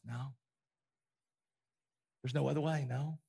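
gentle but final no; soft Father reply. Retold or imitated. The Father answering.

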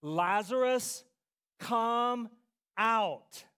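slow, measured loud command; firm, spaced-out summons. Acted. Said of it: "he cried out in a loud voice".

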